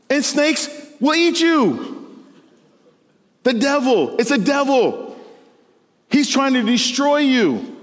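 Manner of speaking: high, slow, hissing snake. Pretend. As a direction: creep it out like a sly snake. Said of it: "That's my snake impression".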